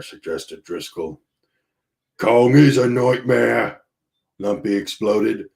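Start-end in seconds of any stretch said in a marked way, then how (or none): 2.2-3.8 put-on slow, punching IS, in a light rough accent; exploding at the captain in a hint of a sailor's accent; Lumpy's rough accent. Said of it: "accent, whatever accent that is".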